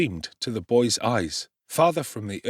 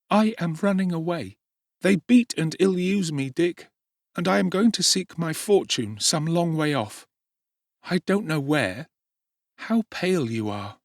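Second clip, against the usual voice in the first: put-on young Oliver; 8 semitones higher, 3 dB louder than usual. A narrator's reading. Oliver asking Dick at dawn, high anxious boy. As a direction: ask anxiously as a runaway boy.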